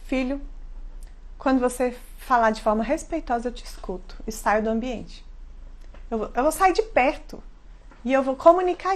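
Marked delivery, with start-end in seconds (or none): 0.1-5.2 calm firm mom. Shown as a demonstration. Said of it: "eu falar".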